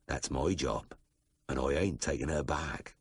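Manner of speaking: low, soft, unhurried drawl; lightly voiced Aussie farmer, calm and immovable; slow drawl. A narrator's reading. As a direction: lay it down low and final. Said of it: "The voice was soft, the words unhurried".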